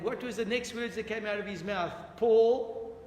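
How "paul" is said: mock cow moo. He became an animal.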